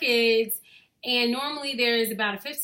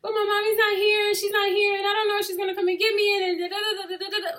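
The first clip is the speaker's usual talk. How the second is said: imitating whiny child; 10 semitones higher, 4 dB louder, faster than usual. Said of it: "And she said".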